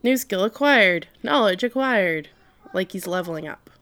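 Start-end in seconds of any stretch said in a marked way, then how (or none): 0.0-2.3 higher, louder system announcement; computer voice. Retold or imitated. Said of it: "is all like".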